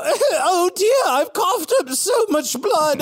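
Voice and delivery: fainting lady. Acted. Sister after coughing blood, hammed-up swoon. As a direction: gasp it out like a delicate invalid. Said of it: "And I go".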